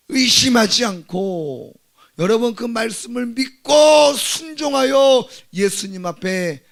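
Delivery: high, loud, drawn-out exhortation; impassioned preacher stretching the words; full-force preaching. Real, not acted. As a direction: urge the congregation slowly at full voice.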